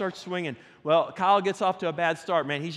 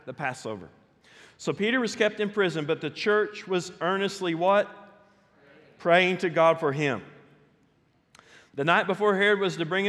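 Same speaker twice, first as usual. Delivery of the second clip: scripture reading. Real, not acted.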